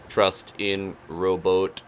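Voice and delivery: very slow robotic monotone; solemn robot voice. Pretend. Player voicing the robot boat.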